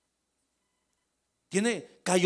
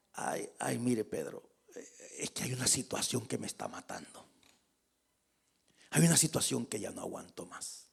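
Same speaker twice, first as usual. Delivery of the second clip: soft, lower, anxious voice; anguished confession; 7 semitones lower, 9 dB quieter than usual. Retold or imitated. Safira confides her distress to Pedro, softly. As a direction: hush it out like a troubled wife.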